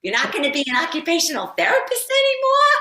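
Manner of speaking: high, loud Brooklyn Jewish mother voice; Jewish Brooklyn accent. Retold or imitated. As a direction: play a startled Brooklyn Jewish mom. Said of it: "Jewish Brooklyn accent saying".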